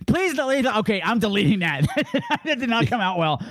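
real high-pitched laughing plea; embarrassed laughing. Real, not acted. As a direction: beg through laughter to retract it. Embarrassed by own crude joke.

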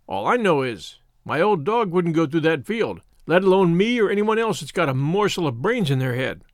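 lightly voiced rustic shepherd; a hint of an old countryman's dialect; old country shepherd. Shepherd warning young scouts off the well, in mild rustic voice.

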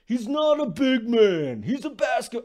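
deliberately awful Walton voice; bad Walton impression. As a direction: drag it out badly on purpose. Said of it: "this thing just keeps getting worse".

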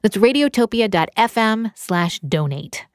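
smooth, measured public radio announcer. Shown as a demonstration. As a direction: read it like an old-school public radio host. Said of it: "my full public radio voice".

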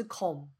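"com" with a full rounded O; wrong-way "com", no schwa; unreduced syllable. Shown as a demonstration. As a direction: say "com" as a clear kom. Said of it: "第一个音节不是com".

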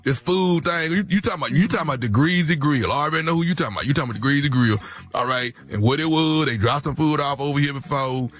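lightly voiced country smooth talker, laid-back; a hint of a boastful country guy at home; country boyfriend. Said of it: "he dropped that accent on you".

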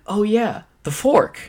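high, loud goofy "Oh yeah, the fork"; dopey Steve voice. Retold or imitated. Retelling how Steve dumbly said it to a friend, high goofy voice. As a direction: play Steve like the answer is obvious. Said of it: "Just the way he said the fork".

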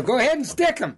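high retold call; egging on. Guide sending hunter at the lion, egging on. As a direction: goad him on, pitch jumping up.

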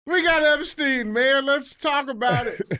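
high, loud, slow hype; excited high-pitched announcement; hyped announcement. Real, not acted. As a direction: drag out the big news like a host. Hyped news opener.

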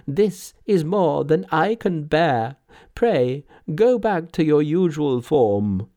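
put-on high, emphatic old man in amazement; astonished old man. A narrator's reading. Old man astonished by the miracle, amazed and overwhelmed.

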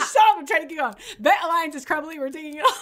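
high, giggly words pushed through laughter; laughing. Real, not acted. She retells her own recap, laughing hard. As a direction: quote it while cracking up.

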